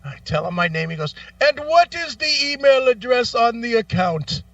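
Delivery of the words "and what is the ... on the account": mock phone agent. Agent voiced.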